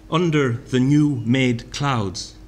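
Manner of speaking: slow, savoured poetry reading; poem reading. Shown as a demonstration. Lecturer reading Thomas aloud, slow and savoured. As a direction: stretch the line out gently.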